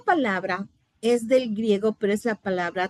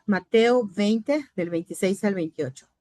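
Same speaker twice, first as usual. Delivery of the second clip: slow, spelled-out reference for note-taking; slow dictation; 2 semitones lower than usual. Shown as a demonstration. Teacher slowly dictating the verse reference to the class. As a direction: give the students time to write it. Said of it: "Anote las palabras".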